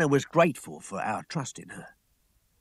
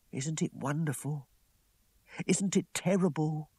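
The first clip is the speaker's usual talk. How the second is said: awed cry; 5 semitones higher than usual. Acted. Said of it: "she cried".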